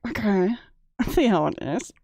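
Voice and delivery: mock snooty tone; imitating a sneering put-on voice; sneering fake sweet. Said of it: "Why are you bringing out the bitch voice".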